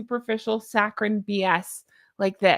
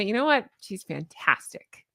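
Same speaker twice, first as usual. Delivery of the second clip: understated; 3 semitones lower, 3 dB quieter than usual. Shown as a demonstration. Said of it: "I can just say".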